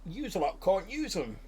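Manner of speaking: high goblin reply. Acted. Goblin refusing the party, high pitched. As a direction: goblin explains the rule. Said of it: "He says, he says".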